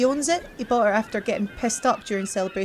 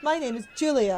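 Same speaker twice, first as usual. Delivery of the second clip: put-on much higher girlish voice; sweet put-on mermaid; 3 semitones higher than usual. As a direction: pitch it way up as the mermaid. Mermaid introduces herself again.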